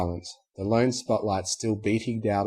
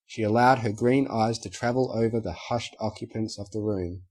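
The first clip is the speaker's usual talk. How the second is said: usual speaking voice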